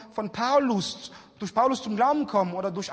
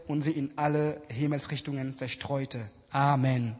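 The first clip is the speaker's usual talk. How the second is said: scripture reading; 3 semitones lower than usual. Acted. Preacher reading Genesis to the congregation, measured. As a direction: read the scripture out to the church. Reads Bible text.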